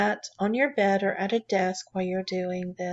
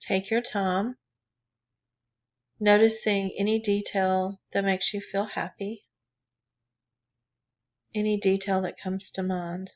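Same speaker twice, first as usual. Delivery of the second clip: calm, even meditation guidance with long pauses; guided meditation. Real, not acted. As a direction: guide listeners gently inward, leaving room between phrases. Leads a drawing meditation.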